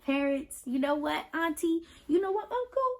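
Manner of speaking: put-on proud child correcting everyone; kid telling family. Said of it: "it's cool to tell them".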